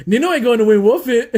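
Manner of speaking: high and loud, cracking up mid-line; laughing quote. Retold or imitated. Friend retelling the moment he thought the friendship was over, laughing. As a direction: blurt it out through laughter.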